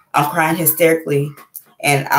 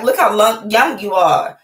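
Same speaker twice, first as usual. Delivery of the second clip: put-on higher-pitched wonder at her baby; tender amazement; 5 semitones higher, 4 dB louder, slower than usual. Mother looking at her baby she hasn't held, amazed. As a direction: marvel at how young the child is. Marvels at her baby's youth.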